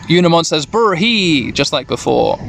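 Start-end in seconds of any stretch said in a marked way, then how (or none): 0.6-1.5 imitated falling whinny; mock donkey-like neigh; Unimon's donkey noise. Unimon whinnies just like before, a donkey-like noise. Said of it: "kind of like a donkey noise".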